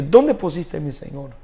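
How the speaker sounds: María begging to know where her Lord is; anguished call. Acted. María crying out at the empty tomb, loud and pleading. María searching for Jesus' body.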